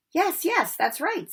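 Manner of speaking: high, light little squeak; a tiny teacher squeaking at the boys; squeaky professor. A narrator's reading. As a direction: squeak it, cheerful and small. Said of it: "said Professor Flitwick, beaming".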